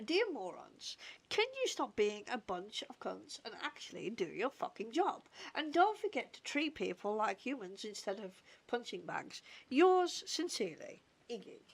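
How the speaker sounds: sweary complaint dictated like a formal letter; mock angry letter. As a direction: scold them in letter form, punching the sign-off. Mock rude letter to the office.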